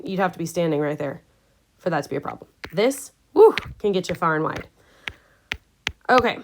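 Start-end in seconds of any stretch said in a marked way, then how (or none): 3.3-3.6 higher, louder little "woo"; a quick rising whoop of awe; impressed whoop. Shown as a demonstration. Teacher rates the far-reaching eruption, impressed whoop.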